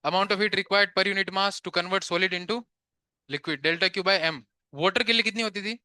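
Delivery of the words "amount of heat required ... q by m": slow, deliberate dictation to the class. Shown as a demonstration. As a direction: spell it out word by word for note-taking. Teacher dictating definition slowly.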